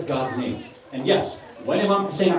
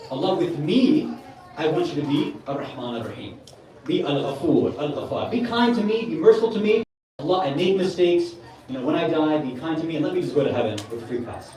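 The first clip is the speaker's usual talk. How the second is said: pleading prayer; 2 semitones lower than usual. Shown as a demonstration. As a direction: plead gently for mercy, drawing it out. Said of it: "we do it this way".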